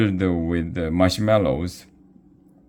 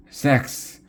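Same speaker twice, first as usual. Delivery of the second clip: calling out; 8 semitones higher than usual. A narrator's reading. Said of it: "called Erica".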